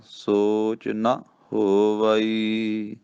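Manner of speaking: ਸੋਚ ਨਾ ਹੋਵਈ drawn out very slowly, ਨਾ prominent; teaching the phrase ਸੋਚ ਨਾ ਹੋਵਈ slowly; slow careful reading. Shown as a demonstration. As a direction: spell out ਸੋਚ ਨਾ ਹੋਵਈ word by word. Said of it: "ਫਿਰ ਬੋਲਣਾ".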